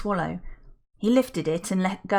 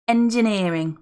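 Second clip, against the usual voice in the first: proudly; 3 semitones higher, 6 dB louder than usual. Acted. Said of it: "Maudie said proudly".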